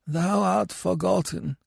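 high, slow second dead voice; another voice from the graves. Acted. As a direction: lightly voice a neighbouring corpse answering. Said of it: "murmured another voice".

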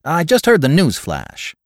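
high, loud caller's voice, lightly acted; clipped exact voice. A narrator's reading. Old acquaintance calls after a news flash, clipped and exact. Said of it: "He had the same clipped, exact voice".

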